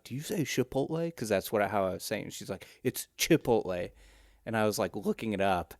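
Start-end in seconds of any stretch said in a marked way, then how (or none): 0.0-1.1 higher, softer quoted question, "Chipotle" with a sh; questioning the pronunciation. Retold or imitated. Retelling Nikki's correction, questioning the sh pronunciation. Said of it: "She was like". 2.8-3.9 "Chipotle" with a crisp ch at the start; correcting pronunciation. Retold or imitated. Retelling Nikki correcting him, ch pronunciation stressed. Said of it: "Nikki corrected me on that".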